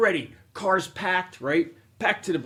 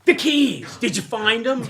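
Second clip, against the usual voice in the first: higher and louder, imitating the wife calling out; wife's demand; 8 semitones higher, 7 dB louder, slower than usual. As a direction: call it across the parking lot. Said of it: "she goes".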